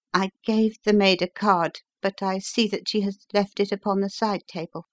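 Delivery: a hint of an agitated but polite patient; lightly voiced visitor. Injured engineer explains his early call to the doctor, lightly voiced visitor.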